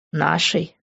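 нашей asked back in surprise; surprised question. Acted. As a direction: echo нашей with disbelief. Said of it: "нашей спальни". (удивлённо переспросить «нашей»)

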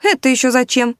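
high indignant kitten. Acted. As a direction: protest it, offended. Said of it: "возмутился рыжий модельер".

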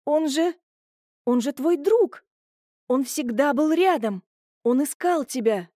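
high, pleading through tears; tearful protest. Acted. Julia defending his friend to her brother, high tearful pleading.

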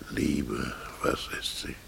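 tonloses, leises Flüstern; geflüstert. Acted. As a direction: die Frage nur hauchen, ganz nach innen. Bloom sinniert über die Liebe. (Bloom grübelt allein über die Liebe, flüsternd)

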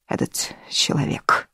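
unvoiced whisper. Natali tells them who inherits, whispering. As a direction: breathe it out, barely voiced.

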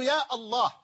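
يا الله as "yaa Allah", Al sounded; article kept after ya. Shown as a demonstration. Teacher contrasts the exception, يا الله with article kept. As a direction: keep the opening "Al" of الله after يا. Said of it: "فأنت تقول".

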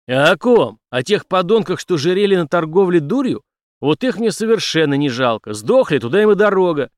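Henry cuts off the police chief, loud and scornful; firm, angry cut-off. Acted. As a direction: slam the door on his excuses. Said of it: "решительно оборвал его Генри".

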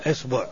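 إصبع as "isbu'"; short rounded vowel after the b in إصبع; damma on ba. Shown as a demonstration. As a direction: say إصبع with "i" first, "u" second. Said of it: "مع الحركات الثلاث في الباء".

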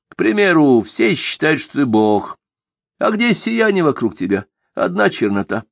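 lightly voiced stern elder; scolding old man. Avvakum voiced in narration.

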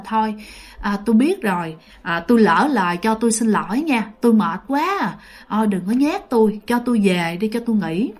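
gentle, weary pleading, lightly acted; imitated softened voice. Tired father pleading with ghost dogs to let him go, softened voice. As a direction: back down and apologise mildly, voice eased. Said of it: "Ba mới nhẹ giọng xuống".

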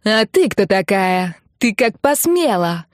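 медленно, громче, с наездом; ори, растягивая слова, как хамка; орёт грубым голосом. Acted. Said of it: "орала грубым голосом". (беспардонная девушка орёт в трубку, медленно и громко)

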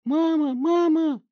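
shrill, very loud squeal with a cry; squealing in terror. Acted. Bloodied teen squealing for his mother in terror. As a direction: squeal like he's being butchered. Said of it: "он завизжал, как резаный".

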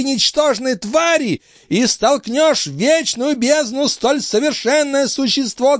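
put-on very high, strained old man's rant; old master ranting. A narrator's reading. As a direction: rail against him with contempt. Althotas curses him.

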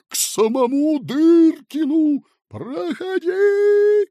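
put-on very high, slow boy's shout; shrill high command from a boy; shouted order. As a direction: bark him onward. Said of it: "крикнул маленький".

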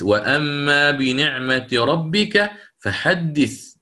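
وأما بنعمة ربك فحدث recited slowly; slow tajwid chant; slow Quranic recitation. Shown as a demonstration. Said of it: "recites verse as example". (ترتيل بطيء للآية)

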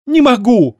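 high, loud panicked blurt. Acted. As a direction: blurt it out in distress. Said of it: "выпалила высокородная".

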